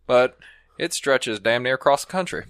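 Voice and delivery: easygoing cowboy storyteller. Pretend. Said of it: "Do a cowboy thing".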